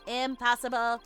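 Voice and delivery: ordinary delivery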